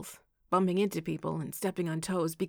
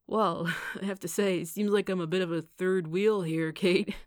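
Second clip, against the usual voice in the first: raised voice, strained courtesy; irritated politeness; 6 dB louder than usual. A narrator's reading. Evan complains to Kate of being a third wheel, irritated but polite. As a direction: stay polite while letting irritation show. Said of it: "his tone wavering between irritation and politeness".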